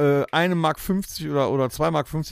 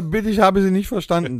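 higher, louder imitation of an automated line; computer hotline voice; 5 semitones higher, 4 dB louder than usual. Automated hotline answering a caller it cannot understand, mock computer voice. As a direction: recite like the phone menu. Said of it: "dann sagt er".

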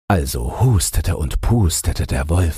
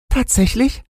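very high piglet squeak; squeaky, high-pitched pig character; little pig. A narrator's reading. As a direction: query it in a tiny pig voice. Little pig questions the wolf.

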